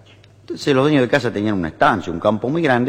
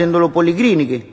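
Italian husband lamenting; 5 semitones higher than usual. Acted. Italian husband answering neighbour about his wife, mock lament. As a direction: lament theatrically with an Italian accent. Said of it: "Hay un italiano".

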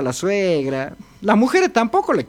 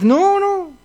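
put-on scolding old wife; 3 semitones higher than usual.

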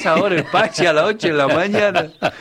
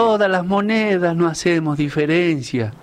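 verse recital. Acted. The speaker performs his 25 de mayo lines for the hosts, reciting verse. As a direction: recite a homemade folk verse. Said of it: "le he hecho unas líneas".

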